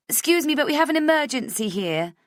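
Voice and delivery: high, loud mock emergency; urgent call. Viv announcing an emergency to the girls, high and loud. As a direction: demand space dramatically. Pushing through to the mirror.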